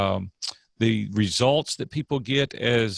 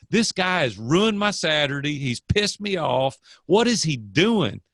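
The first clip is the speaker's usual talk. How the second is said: mildly angry thought; 5 semitones higher than usual. Retold or imitated. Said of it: "I was so mad".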